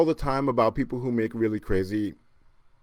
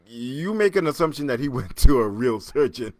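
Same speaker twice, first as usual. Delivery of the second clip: whispered through laughter; laughing whisper; 6 dB louder than usual. Real, not acted. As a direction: whisper it while cracking up. Mocking aside about the surgeon.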